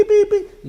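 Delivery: high, loud honking beeps; imitated car horn. Taxis honking at the traveller, high loud mock horn. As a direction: beep like a taxi horn.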